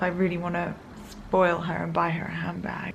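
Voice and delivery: a secret whispered to herself; whispered thought. Retold or imitated. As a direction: whisper it like a plan nobody may hear. Inner thought, hushed.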